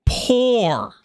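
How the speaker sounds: poor alone, drawn out and falling; stressed poor. Shown as a demonstration. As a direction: repeat poor with heavy weight. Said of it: "emphasis on the word poor".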